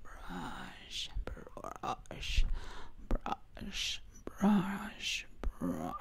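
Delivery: whispered zombie rasp; breathy undead whisper. Pretend. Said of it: "this weird voice is tingly".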